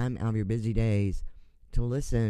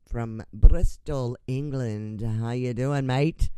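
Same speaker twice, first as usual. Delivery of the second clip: mock British accent; 2 semitones higher, 5 dB louder, slower than usual. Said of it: "Oh, that's Australian".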